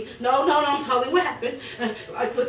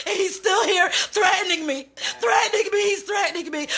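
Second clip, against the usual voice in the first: real crying; 5 semitones higher than usual. Real, not acted. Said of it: "I'm crying".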